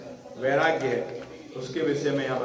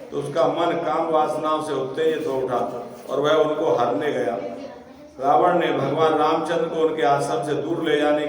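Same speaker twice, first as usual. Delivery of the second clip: louder, measured recitation of the sacred text; scripture reading; 4 dB louder than usual. Acted. Preacher reading the Bhagavatam to listeners, declaiming recitation. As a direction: read the verse out to the assembly. Sukadeva's words read aloud.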